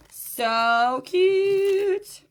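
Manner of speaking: high gushing squeal of delight; excited squeal. Real, not acted. Seller gushing over a cute necklace to viewers, high excited squeal. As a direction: squeal it out, thrilled with the piece.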